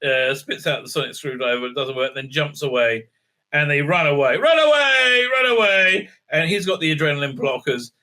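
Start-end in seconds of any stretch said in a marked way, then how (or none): 4.4-6.1 higher, louder panicked cry; hammed-up cry to flee; mock panic. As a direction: yell it like a cartoon coward fleeing. Mocking the characters fleeing.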